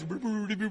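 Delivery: buzzing brr imitating a dial; rotary dial whirr. Shown as a demonstration. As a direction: mimic the dial spinning back. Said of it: "the eye goes".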